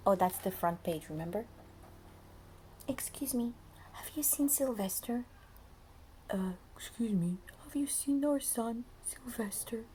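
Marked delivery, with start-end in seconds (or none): 2.9-9.8 worried parents asking. Acted.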